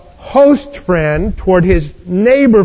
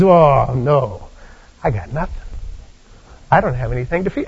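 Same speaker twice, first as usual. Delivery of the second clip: dismayed host; 6 semitones lower, 5 dB quieter than usual. Acted. Host realizes he has no food.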